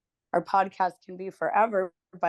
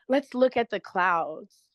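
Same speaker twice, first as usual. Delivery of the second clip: imitating mom's soothing deflection. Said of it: "you know, like".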